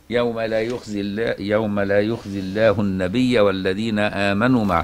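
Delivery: slow, measured chanting of the verse; Quranic recitation. Acted. Sheikh reciting the verse to his students, slow chant. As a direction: recite the verse in tajweed style, unhurried.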